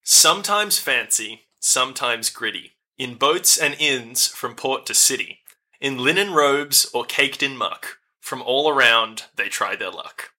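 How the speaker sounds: slow, measured riddle recitation; riddle reading. Acted. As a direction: read the riddle deliberately. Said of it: "which reads as follows".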